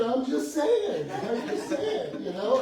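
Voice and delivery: slow, high, loud laughing I'm just saying; playful laughing shrug; laughing tease. Retold or imitated. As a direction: drag it out while cracking up. Teasing reply amid laughter.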